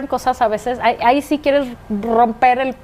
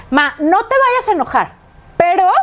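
daughter's careful opener; 5 semitones higher than usual. Retold or imitated. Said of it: "llega y dice".

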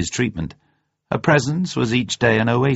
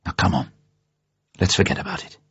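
gentle, understated coaxing; mildly soothing reassurance; comforting; faster than usual. A narrator's reading. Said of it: "said Bond comfortingly".

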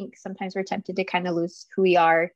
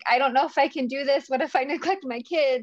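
retold tearful plea; 5 semitones higher than usual. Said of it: "crying and bawling on the phone".

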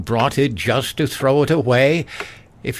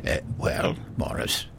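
whispered, much softer; hushed whisper; 11 semitones lower, 9 dB quieter than usual. Acted. Father hushes son before the sergeant, whispering. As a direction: hush him under your breath.

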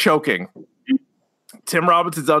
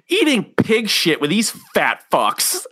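laughing. Retold or imitated. Acted sketch quote laughing.

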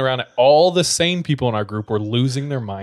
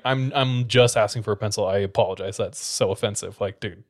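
sassy; 3 semitones lower than usual. Retold or imitated. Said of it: "But I was like".

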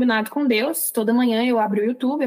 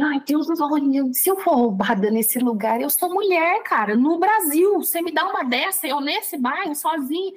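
higher-pitched, mock-indignant grumble; retold complaint to God; 4 semitones higher than usual. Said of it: "cinco segundos que eu reclamei". (reclamação indignada com Deus, em tom de relato)

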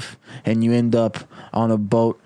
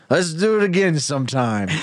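jaunty cheers shout; 5 semitones higher than usual. Acted. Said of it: "and he goes".

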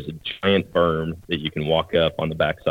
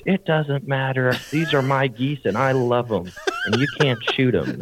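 mock angry neighbour; 7 semitones higher than usual. Lady tells the hunter her geese can't be shot, mock angry high voice. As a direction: play her possessive and indignant, higher. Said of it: "she is just screaming at me".

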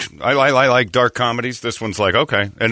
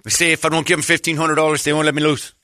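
lightly voiced trapped caller, pitched up; Ray; 4 semitones higher than usual. Old trainer phones Johnny for ransom, lightly voiced and higher. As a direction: plead a little higher, mock predicament. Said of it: "I got a call from him".

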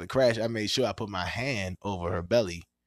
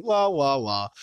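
mock crying; 4 dB louder, slower than usual. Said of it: "answering it like".

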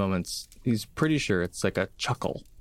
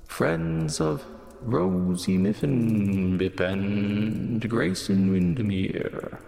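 slow, lilting construct voice; drawn-out sing-song warforged; sing-songy voice; slower than usual. Acted. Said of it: "Almost sing-songy voice".

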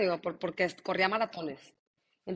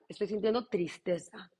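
quiet naming. Shown as a demonstration. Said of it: "reconócela".

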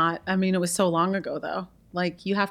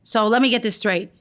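lightly voiced TV judge, emphatic; Judge Judy. Guest does an impression on request, a touch of stern judge. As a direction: lay down each phrase firmly, hitting the last word. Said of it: "Judge Judy".

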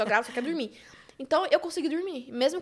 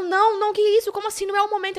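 high, frantic retold objection; acted panicked protest; 8 semitones higher, 4 dB louder than usual. Woman tells partner the timing is wrong, acted panicked protest. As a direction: object in hammed-up alarm.

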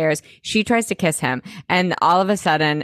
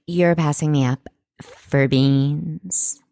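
slow, drawn-out incredulity; slow mock indignation; mock disbelief; 3 semitones lower, slower than usual. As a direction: imitate offended disbelief, stretching each word. Acts out Summer's disbelief.

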